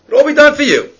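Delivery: high, laughing delivery; chuckling through the line. Real, not acted. Laughs while describing the promise.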